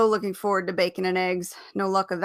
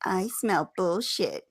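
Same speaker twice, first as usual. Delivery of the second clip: slow mocking parrot; mock him back, slowly; slower than usual. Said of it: "she mocked him".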